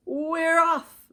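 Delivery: loud, high call of the men; men shouting. A narrator's reading. Movers shouting as the cart leaves. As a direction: shout it out as they set off. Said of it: "the men shouted".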